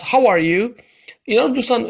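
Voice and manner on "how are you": slowed How are you with rise on are; slow model question. Shown as a demonstration. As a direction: ask slowly, lifting on are. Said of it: "پس".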